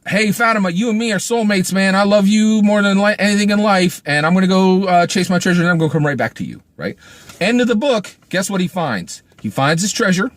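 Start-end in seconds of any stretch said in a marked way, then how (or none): 0.1-6.6 a lightly voiced gushing young lover, higher; boy's gushing vow. Reviewer voicing the boy vowing to Fatima, lightly gushing. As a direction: gush it like an eager kid in love. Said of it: "The boy says".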